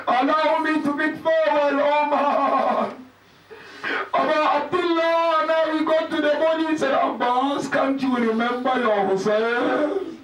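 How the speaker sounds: pleading lament with stretched words; mournful recitation. Acted. Laments the dying farewell.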